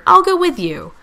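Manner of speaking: very high, loud eager offer; enthusiastic, voice leaping up; cheering. A narrator's reading. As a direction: pipe up gleefully to volunteer. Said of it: "Pip cheered".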